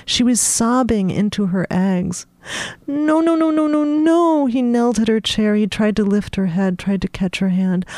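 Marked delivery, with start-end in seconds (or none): 2.9-4.5 much higher pleading no's; high, urgent repeated no; frantic pleading. Acted. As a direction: beg her to stop crying. Mikey pleading with crying Madeline.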